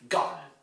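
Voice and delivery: "Government" as GUV-n'ment, ending reduced; only ga heard. Shown as a demonstration. Teacher models for students, "Government" with only GUV prominent. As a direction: punch the first syllable of "Government", swallow the rest. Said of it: "You only hear ga".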